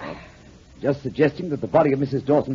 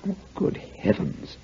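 shocked whisper; 5 semitones lower, 7 dB quieter, slower than usual. Acted. Shocked at poison story.

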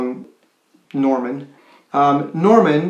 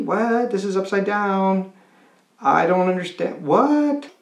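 higher, incredulous, with a laugh at the start; baffled teen; 3 semitones higher than usual. Retold or imitated. Teen baffled when his mom asks him for advice, incredulous and higher. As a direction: act floored that your mom is asking you. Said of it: "And Norman is just like".

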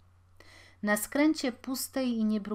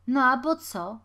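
loud, raised cheeky comeback; defiant retort; 5 semitones higher, 9 dB louder than usual. A narrator's reading. Smaller boy answering the taller one, defiant. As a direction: throw the question back. Boys quarrel over throwing stones.

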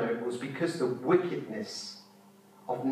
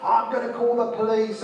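high mock-indignant quote; indignant threat; 7 semitones higher, 4 dB louder than usual. Preacher imitating the woman persecuting her, mock indignant. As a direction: imitate an outraged threat, pitched up.

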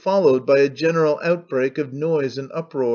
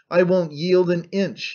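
higher, flustered defiant shout, half acted; confused shout; 3 semitones higher than usual. Old man defying the laughing crowd, a mild confused shout. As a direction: refuse stubbornly, voice lifting. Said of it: "he shouted absurdly in confusion".

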